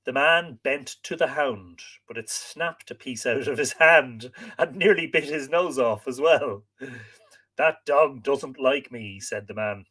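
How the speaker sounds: lively, dramatic read-aloud; expressive storyteller with acted dialogue; story narration. A narrator's reading. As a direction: read the tale with wide swings of pitch.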